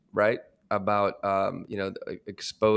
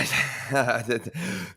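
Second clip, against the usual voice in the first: nervous laugh; 3 semitones higher than usual. Real, not acted. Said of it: "that's my nervous voice right there".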